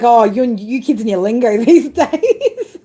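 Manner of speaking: put-on slow, laughing old-fogey voice; hammed-up old person scolding young people; mock grumpy old-timer. Teasing a young viewer, laughing in a mock old-timer voice. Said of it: "I was like".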